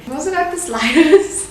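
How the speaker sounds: excited squeal. Real, not acted. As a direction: squeal it with delight. Excited about the food.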